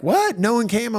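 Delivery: high, loud startled question; surprised. Retold or imitated. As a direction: imitate friends taken aback by an empty room. Friends shocked at empty show.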